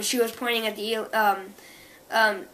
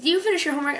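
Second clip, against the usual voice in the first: imitating mom; 6 semitones higher, 3 dB louder, much faster than usual. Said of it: "my mom, like".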